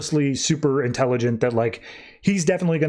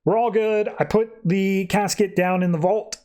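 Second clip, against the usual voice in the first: high, casual reassurance; lightly voiced Fury, all is well; breezy Fury; 5 semitones higher than usual. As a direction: brush it off cheerfully. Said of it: "Fury comes in just like".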